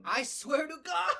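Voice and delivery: high laughing outburst. Real, not acted. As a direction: shriek it through laughter. Cracking up at the joke.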